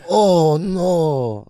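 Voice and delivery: light Asian accent, mock dismay. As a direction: imitate an Asian parent saying it. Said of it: "in an Asian accent said that".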